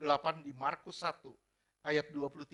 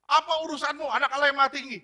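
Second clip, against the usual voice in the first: high, loud mock scream of the demon; demon's shout; 10 semitones higher, 12 dB louder, faster than usual. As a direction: yell it like a demon in a crowd.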